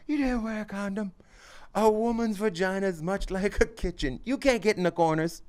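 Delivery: retold doctor in a high, put-on Asian accent; mock Asian accent. Friend retelling a joke, imitating the doctor's Asian accent. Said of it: "'cause he did it in an Asian accent".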